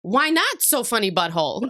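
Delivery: put-on light Eastern European child accent; a hint of Eastern European child. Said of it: "Eastern European accent".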